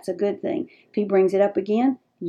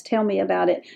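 soft gentle invitation; 3 dB quieter than usual. Shown as a demonstration. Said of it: "They are magic words".

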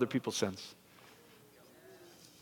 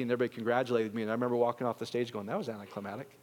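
fast, soft, lower deadpan; deadpan letdown; 5 semitones lower, 10 dB quieter, faster than usual. Retold or imitated. Pastor recalling his thirteen-year-old self, soft flat letdown. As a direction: throw it away, underwhelmed.

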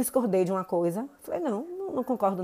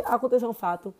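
ordinary talk, nothing marked

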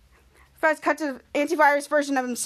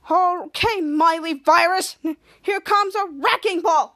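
cocky hero quip; 2 semitones higher, 3 dB louder, slower than usual. Retold or imitated. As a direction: ham up the punchline slowly. Captain Man's quip before punch.

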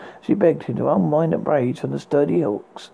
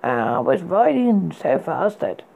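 stammering; 2 semitones higher than usual. Acted. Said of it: "as he stammered".

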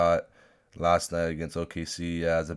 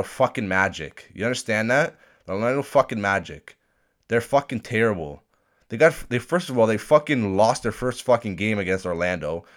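heated rant; 3 semitones higher, 6 dB louder than usual. Real, not acted. Heated rant about Raptors.

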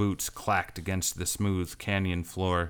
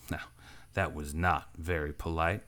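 dangerously quiet; 2 semitones lower, 5 dB quieter than usual. A narrator's reading. Stranger warns Lark after she spits, dangerously soft. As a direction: let the threat sit under the words. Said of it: "said the stranger dangerously".

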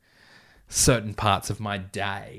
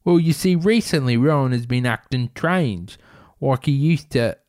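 character voice pushed out loudly; interviewed suspect; 3 semitones higher, 6 dB louder than usual. Acted. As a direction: launch into a comic crook's explanation. Suspect explains himself in interview.

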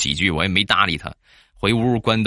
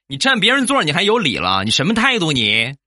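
retold shout; 8 semitones higher than usual. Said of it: "大声地喊道".

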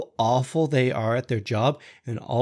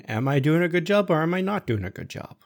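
confused; 4 semitones higher, faster than usual. Retold or imitated. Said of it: "I was so confused".

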